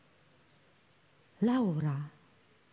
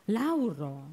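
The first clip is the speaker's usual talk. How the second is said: a hint of stagey drama on the name; mock-grand, lightly hammed address; theatrical pose. A narrator's reading. Young man answers her stage gesture with his own, lightly hammed. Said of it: "przybierając również teatralną pozę".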